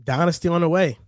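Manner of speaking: dry, sarcastic hype. Real, not acted. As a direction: say it sarcastically, tongue in cheek. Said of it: "Sarcasm, huh?".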